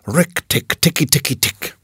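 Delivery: understated chattering war cry; rapid clicking syllables of a small animal's war cry. A narrator's reading. Mongoose going off into his war cry. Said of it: "his long war cry".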